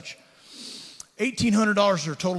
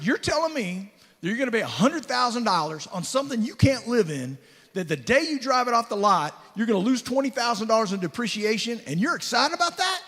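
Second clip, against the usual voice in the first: incredulous; 6 semitones higher than usual. Retold or imitated. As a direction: lay out the folly, pitch rising to a peak. Speaker confronts friend's bad purchase.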